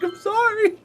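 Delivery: high, whimpering fake apology; mock whiny apology. Apologizing to angry friend, mock whimpering high. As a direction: whine it like a guilty kid. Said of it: "and I'm like".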